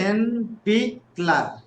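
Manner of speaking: raisin, bick, ler said as separate syllables; sounding out words. Shown as a demonstration. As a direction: repeat raisin bickler in parts.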